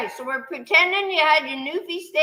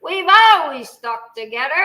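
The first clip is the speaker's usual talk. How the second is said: solemn recital; 6 dB louder than usual. Shown as a demonstration. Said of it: "I'm gonna say it, and you're gonna repeat after me".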